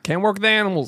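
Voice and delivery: cracking up mid line; laughing through it. Real, not acted. Laughing while retelling the actor's line to friends. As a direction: quote broken up by laughter.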